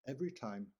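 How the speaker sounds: teacher stressing every. Shown as a demonstration. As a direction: lean hard on the word every. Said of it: "and I emphasize that word".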